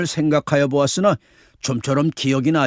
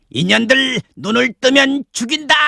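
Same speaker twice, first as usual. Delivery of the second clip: mock robber's threat, pitched up; rehearsed threatening roar; 7 semitones higher than usual. Hiding man rehearses a robber's threat to the women, mock roar. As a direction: play at bellowing a menacing order. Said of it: "호통을 하리라".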